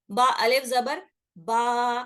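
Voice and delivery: बा अलिफ जबर बा said slowly, the बा vowel drawn out; slow drawn-out letters. Shown as a demonstration. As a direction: spell it out letter by letter, stretching बा. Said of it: "बा जबर बा होता था". (धीरे खींचकर पढ़ना)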